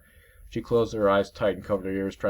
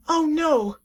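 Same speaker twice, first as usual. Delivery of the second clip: sarcastic warning; 7 dB louder, much slower than usual. Acted. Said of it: "That was pretty unemotional. sarcastic".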